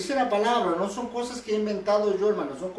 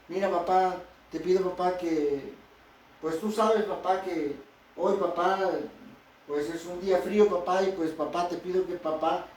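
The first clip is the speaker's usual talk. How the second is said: put-on whiny kid pleading. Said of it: "no hablan así".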